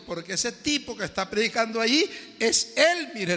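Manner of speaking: words through laughter; laughing reveal. Retold or imitated. Orange seller laughing as she tells the youth, through laughter. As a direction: laugh as you give the game away.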